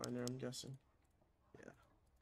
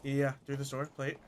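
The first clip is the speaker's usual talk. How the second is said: quick urgent warning to the team; urgent callout; 2 semitones higher, 4 dB louder than usual. Real, not acted. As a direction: call out the enemy sound, urgent. Spotting enemies in game.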